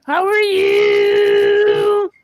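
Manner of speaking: very slow stretched how are you; drawn-out mock greeting. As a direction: stretch it out like a grand lady. Queen character greeting.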